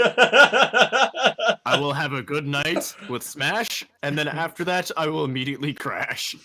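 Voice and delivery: grinning cocky answer; loud laughing boast; laughing mock vow. Answering the dad in character.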